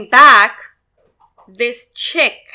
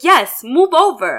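slow, higher-pitched order; retold upset insistence; 4 semitones higher, slower than usual. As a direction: draw out a re-enacted demand. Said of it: "I got so upset".

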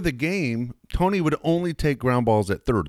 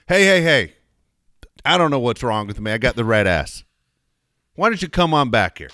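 raised calling voice; retold yell; 3 dB louder than usual. Player calls reporter back with a raised call. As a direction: call him back across the room. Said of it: "he yells at me".

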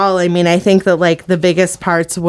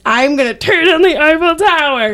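high-pitched hammed-up rant; mock threat; 9 semitones higher than usual. Hungry viewer demanding a baguette, mock outraged threat. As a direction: threaten absurdly, pitch climbing.

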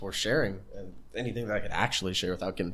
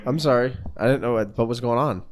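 louder, speaking up for the mic; 6 dB louder than usual. Real, not acted. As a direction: project so the mic catches it. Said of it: "very quiet on the recording".

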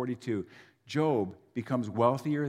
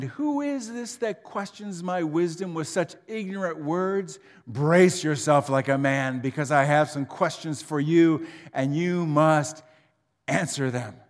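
voice of God; 3 dB louder than usual. Acted. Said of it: "the Lord answered Job from the whirlwind".

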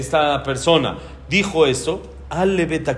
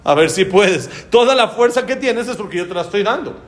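mocking challenge; 4 semitones higher than usual. God taunting the general who rejected help. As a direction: dare him, amused.

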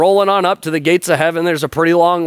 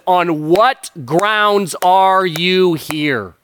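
frustrated angel; 4 semitones higher, much slower than usual. Retold or imitated. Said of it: "in frustration".

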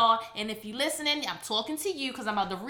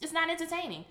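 mock reading of the review. Shown as a demonstration. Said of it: "That's how I'm saying it".

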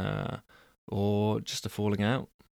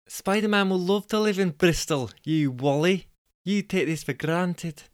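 high-pitched Scottish woman; Jessica; 7 semitones higher than usual. Acted. Jessica scolding Angus about Bristol, high Scottish accent. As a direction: chide in a put-on Scottish accent. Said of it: "We've decided she's Scottish".

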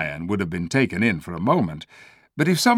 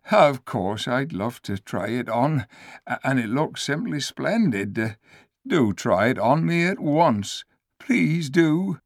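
higher, eager-to-please donkey voice; lightly voiced donkey saying sorry; apologetic donkey; 5 semitones higher than usual. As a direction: make it up to him meekly.

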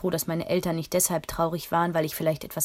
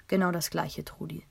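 milder. Acted. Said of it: "sagte er milder".

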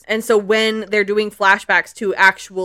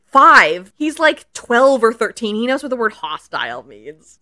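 exasperated; 2 semitones higher, 4 dB louder than usual. Retold or imitated. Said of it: "And I'm like".

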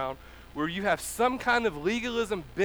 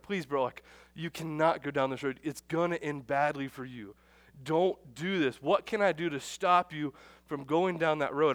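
pleading friend; 3 semitones lower than usual. Retold or imitated. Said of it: "we're begging you".

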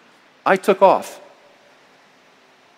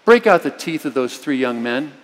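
fervent prayer. Shown as a demonstration. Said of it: "just say".

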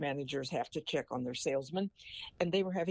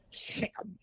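parrot voice; 5 semitones higher than usual. Acted. Parrot speaks the punchline.

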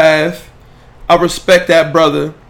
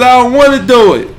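voicing the baby; 8 semitones higher, 7 dB louder than usual. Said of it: "he said".

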